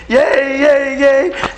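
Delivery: high, loud mock yay cheer; jumping-up championship yay yell; retold cheering yell. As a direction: relive the victory whoop. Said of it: "I'm screaming".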